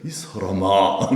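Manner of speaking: slow, low drawn-out reproach; genteel reproof. Retold or imitated. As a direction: chide with restraint, stretching the words. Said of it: "좀 책망하신 거예요". (점잖고 느리게 책망하는 말투)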